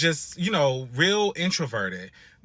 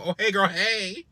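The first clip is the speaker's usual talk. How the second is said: lightly imitated sugary hello; fake-friendly greeting; 3 semitones higher than usual. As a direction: greet too sweetly to her face. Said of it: "it was given very much so".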